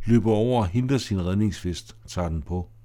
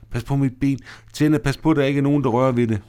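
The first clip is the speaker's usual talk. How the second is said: anxious warning; 4 semitones higher, 3 dB louder, faster than usual. Acted. Elisabeth guards her leg in chaos.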